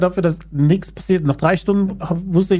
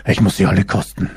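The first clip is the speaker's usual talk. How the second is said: much lower, gruff Batman growl; deep Batman voice; 9 semitones lower than usual. Acted. Voicing Batman in the joke.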